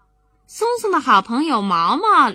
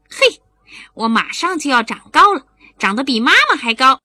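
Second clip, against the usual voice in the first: put-on louder, eager kid voice; giddy little boy at the mirror; gleeful child; 3 semitones higher, 6 dB louder than usual. Boy at the mirror sure he'll grow, gleeful and loud.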